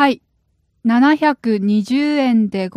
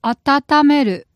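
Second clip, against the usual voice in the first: slow and clear; 3 semitones higher, much slower than usual. Shown as a demonstration. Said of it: "what's today's lone vocabulary word?".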